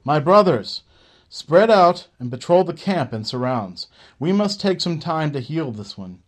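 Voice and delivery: loud, high rallying orders to the camp; commanding call. Acted. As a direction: bark out orders to the gypsies, building to Move. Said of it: "breaking their awestruck gaze with his voice".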